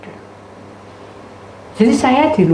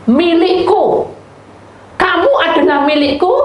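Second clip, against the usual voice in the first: voice of God; 9 semitones higher, 5 dB louder than usual. Acted. God declaring to his people, a loud proud claim. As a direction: claim them as your own, booming.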